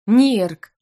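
flustered indignant cry. Acted. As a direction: snap his name in outrage. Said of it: "возмущённо ответила на это я".

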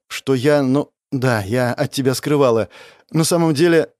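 ordinary delivery

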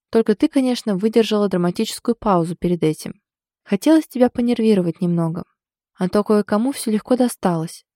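usual speaking voice

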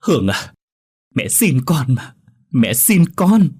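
distraught mother pleading; tearful begging. A narrator's reading. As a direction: implore your daughter, drawing out the words. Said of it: "ôm tay con gái mà khóc lóc".

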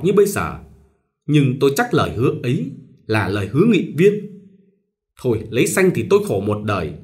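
a mild tearful, quickened confession; sobbing. Acted. Minh confiding to Xuân about the marriage, mildly tearful. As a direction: talk fast through held-back sobs. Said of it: "thổn thức nói".

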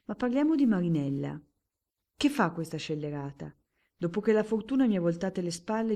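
più alto e più forte, sarcastico; barone amaro. Acted. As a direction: sfoga l'amarezza con ironia. Il barone amaro chiede di Marinella. (barone sfortunato, ironico e amaro)

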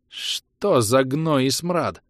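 slow, drawn-out outraged cry. Acted. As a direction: let the curse ring out slowly. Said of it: "повысила голос Гвинет".

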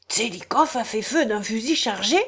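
brisk disbelieving question; a gentleman snapping back in disbelief; quick incredulous rise on feu; lively question. Acted. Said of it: "dit vivement".

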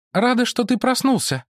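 high woman's voice; woman character. Acted. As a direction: Mara greets the monk, pitched high. (Мара приветствует монаха высоким женским голосом)

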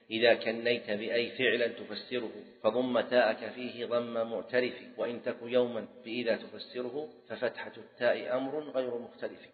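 measured, metrical recital of a grammar couplet; teacher reciting memorised verse; verse recitation. Shown as a demonstration.

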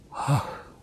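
soft unvoiced gasp of revelation; breathy gasp. A narrator's reading. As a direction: exhale it in sudden realization. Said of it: "выдохнул Джозеф".

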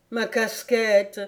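slow, pitiful little question; a mild touch of self-pity. Acted. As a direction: whine it like a sulking child. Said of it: "d'un ton si piteux".

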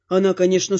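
ordinary delivery, nothing marked

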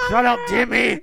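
shouted, high and loud; pretend yell. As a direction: yell at the kid. Yelling at a pretend abused kid.

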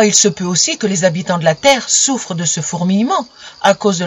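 a self-important husband laying out a problem; the sun as husband. Acted. Sun lecturing his moon wife, mildly pompous. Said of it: "me dit-il".

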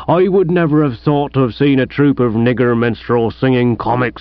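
lightly voiced aggrieved village policeman; disgruntled police sergeant. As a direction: grumble like a mildly put-out sergeant.

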